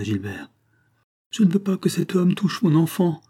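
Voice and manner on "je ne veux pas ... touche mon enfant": high, alarmed mother's protest; crying out. Acted. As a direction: cry out to protect your child. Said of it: "cria André".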